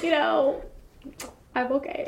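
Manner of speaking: high, forced breezy reassurance; brave-face voice. Retold or imitated. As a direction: act fine when you're not. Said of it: "And I'm like".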